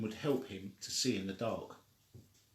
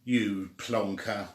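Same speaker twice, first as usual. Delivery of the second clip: parrot insult; 3 semitones lower, much slower than usual. Acted. Parrot voiced in story.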